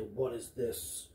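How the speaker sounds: lightly voiced demonic kobold. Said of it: "in a demonic voice say".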